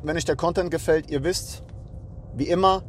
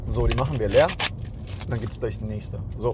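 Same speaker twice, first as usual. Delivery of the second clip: while sipping a drink; 5 semitones lower than usual. Real, not acted. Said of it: "erstmal muss ich was trinken".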